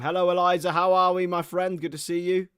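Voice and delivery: cheery greeting. Real, not acted. Streamer greeting viewer Eliza in chat, cheery. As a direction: welcome a friend warmly.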